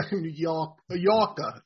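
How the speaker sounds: New York accent with dropped r's. Shown as a demonstration. Plays up his New York accent.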